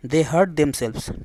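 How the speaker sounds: very slow, each word spaced out; slow dictation. Shown as a demonstration. Teacher reading an example sentence to students, very slow. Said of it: "ठीक है।".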